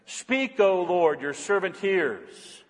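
slow, deliberate prayer line. Shown as a demonstration. Pastor modeling the prayer slowly for the congregation. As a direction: savor each word of the prayer. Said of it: "Say it with me".

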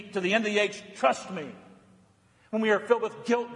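emphatic, lifted sermon delivery; fervent preaching. Real, not acted. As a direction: proclaim each promise firmly to the congregation. Preaches promises with fervour.

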